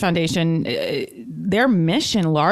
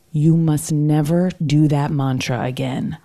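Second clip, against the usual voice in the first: solemn guru command; 5 semitones lower, slower than usual. Retold or imitated. Retelling guru's stern command.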